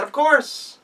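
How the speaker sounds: put-on high, loud child's voice; sweetly scheme like a child; girl tricking the wolf with a request; clever girl.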